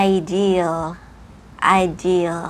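slow, clear "ideal" with L sounded; final L. Shown as a demonstration. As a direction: lift the tongue lightly on the L of "ideal". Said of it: "กระดกลิ้นเบาๆในปาก".

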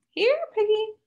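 high sing-song calling, dragging out the last words; taunting call. Acted. Drunk pretties hunting Tally, calling in high sing-song taunt. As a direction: call her like a pet you are hunting.

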